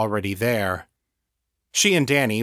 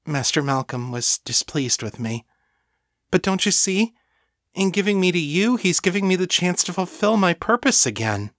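high, eager pleading devotee; fervent thrall begging to be understood; devoted servant; 8 semitones higher than usual. Acted. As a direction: plead earnestly, rising into high excitement. Voices Lena in story.

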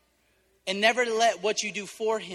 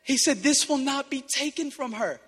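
holding back tears; 5 semitones higher than usual. Real, not acted. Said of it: "I'm gonna try not to cry".

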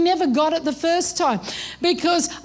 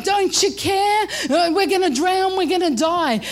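mildly acted panic, pitch raised; freaking out; 3 semitones higher than usual. Disciples to sleeping Jesus in the storm, mildly freaking out. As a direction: cry out in mock alarm. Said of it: "The disciples are freaking out".

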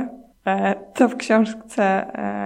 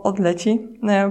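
ordinary talk, nothing marked

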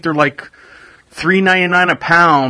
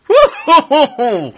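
cheering; 8 semitones higher, slower than usual. Real, not acted. Cheering recovery.

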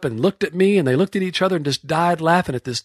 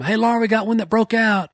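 raised calling voice; 9 semitones higher than usual. Retold or imitated. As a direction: holler to a mate far off. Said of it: "As soon as I'd yell at him".

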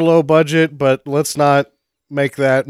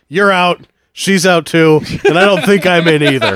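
quoting Bottle Rocket; 4 semitones higher, 5 dB louder than usual. Retold or imitated. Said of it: "make a joke from the movie".

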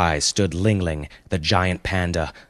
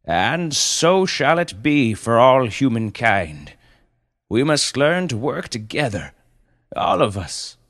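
slow, raised, grand oratory; yelled proclamation; 7 semitones higher, 4 dB louder than usual. Acted. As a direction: proclaim it to a vast crowd as a noble panda. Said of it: "he yelled".

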